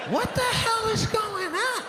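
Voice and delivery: high, slow, shouted disbelief; baffled outburst. Retold or imitated. Comedian baffled by the grim class, high slow shout. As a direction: cry out in disbelief.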